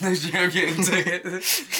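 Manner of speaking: mocking repeat. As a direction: drag it out mockingly.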